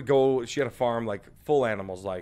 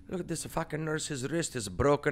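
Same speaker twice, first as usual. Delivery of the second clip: mildly hammed-up indignant Italian grandma; a touch of a scandalized nonna; 4 semitones higher, 8 dB louder than usual. Grandson retelling nonna complaining about the nurse, mock outraged. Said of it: "So my nonna would be like".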